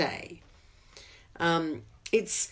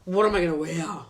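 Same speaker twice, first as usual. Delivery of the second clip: whiny complaining; 4 semitones lower than usual. Acted. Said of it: "So instead of".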